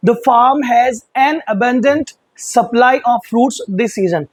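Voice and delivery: sentence read very slowly, word by word; slow example read. Shown as a demonstration. Teacher reads the example sentence aloud, slow dictation. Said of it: "example sentence read".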